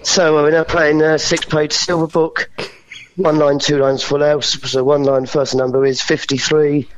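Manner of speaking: steady bingo calling, number by number; bingo caller. Shown as a demonstration. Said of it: "Do some bingo caller numbers for me".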